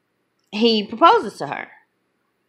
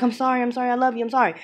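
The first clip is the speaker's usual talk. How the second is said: higher, run-on mock pleading; retold pleading apology; 5 semitones higher, much faster than usual. Cheating boyfriend begging his girlfriend, mock pleading. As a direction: rattle off the apologies like imitating a caught man.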